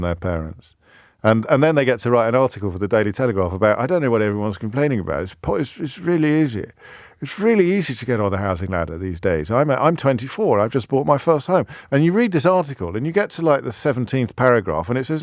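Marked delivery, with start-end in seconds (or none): 3.8-11.7 put-on silly posh accent. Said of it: "I'm doing a silly accent".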